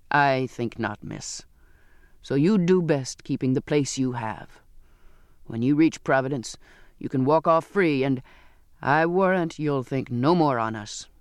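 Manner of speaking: lightly voiced surly seaman, rather low; a hint of a gruff sailor; scornful sailor. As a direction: dismiss her with cold contempt.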